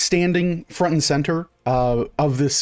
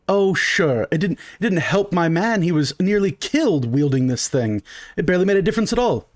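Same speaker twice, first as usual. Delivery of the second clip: lightly voiced, higher haughty complainer; a hint of an affronted gentleman; indignant haughty customer; 4 semitones higher than usual. Customer complaining about dagger to shopkeeper, mildly indignant.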